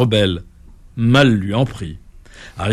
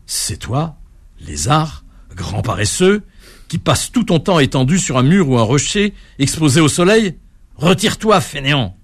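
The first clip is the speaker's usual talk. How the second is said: mocking rebuke; 3 semitones higher than usual. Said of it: "décochant ces paroles".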